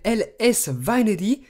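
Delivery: L S Vanity read out in a heavy French accent, English letters said the French way; self-mocking French-accented English. Real, not acted. Presenting a theme name to viewers, self-mocking French-accented English. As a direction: joke about his own clumsy English accent. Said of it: "avec mon magnifique accent".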